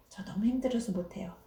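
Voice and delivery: 저 너무 힘들어서 못해요 said softly and trailing off; a small defeated complaint; soft whimper. Acted. Child told to do a task at kindergarten, softly giving up. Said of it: "유치원에서 어떤 일을 하라고 해요".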